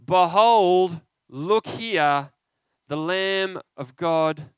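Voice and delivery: ringing loud proclamation, slow on the Lamb; John the Baptist calls out loudly to the crowd; proclaiming. Acted. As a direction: announce him to the crowd like a prophet. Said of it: "and John the Baptist says".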